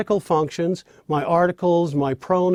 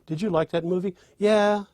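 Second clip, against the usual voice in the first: eager rising yeah; 4 semitones higher than usual. Shown as a demonstration. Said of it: "you know what the answer is".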